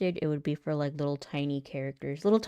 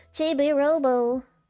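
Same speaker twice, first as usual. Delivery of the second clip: put-on tiny, babyish character voice, pitched up high; 9 semitones higher, 5 dB louder than usual. Showing voices they can do, the Chibi-Robo baby voice. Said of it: "I do like little baby voices a lot".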